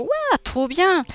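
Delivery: high, stretched-out squeal of delight; overexcited. Acted. Streamer thrilled about buying a super bike, overexcited. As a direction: burst out overexcited, drawing out the wow. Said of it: "je suis surexcitée".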